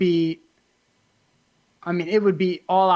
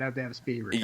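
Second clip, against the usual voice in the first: lower, softer, truly meant; sincere; 7 semitones lower, 8 dB quieter, much faster than usual. Real, not acted. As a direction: say it and mean it. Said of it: "Joking aside".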